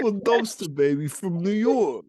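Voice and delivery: high, loud, drawn-out mimicry; mock skit character. Teasing friend replays her drunken skit, hammed-up. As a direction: mimic her silly persona, slow and high.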